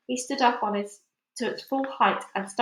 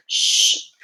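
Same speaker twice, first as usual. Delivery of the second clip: sharp unvoiced hush; urgent shush; 8 dB louder than usual. A narrator's reading. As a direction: silence him fast. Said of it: "the others whispered".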